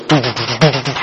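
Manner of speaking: low pulsing "doo doo doo" soundtrack; imitated movie music. Preacher shows how movie music builds, imitated soundtrack. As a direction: vocally mimic suspense music. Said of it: "the music goes".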